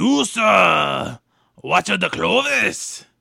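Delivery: loud, slow, booming, creaky alien voice, "sir" stretched out. Doing Star Wars impressions, starting with a decent Boss Nass impression. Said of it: "we'll start with Boss Nass".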